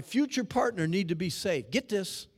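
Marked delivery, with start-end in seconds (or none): none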